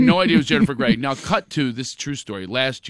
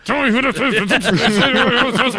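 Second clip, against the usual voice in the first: higher, slow, hammed up; mock suspicious friend; 9 semitones higher, 4 dB louder, much slower than usual. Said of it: "talking like that around you".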